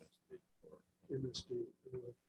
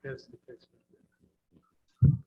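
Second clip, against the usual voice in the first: drawn out and louder; slow and loud; 15 dB louder, much slower than usual. Real, not acted. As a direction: stretch each word out loud. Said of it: "I'm sorry, what was the last part?".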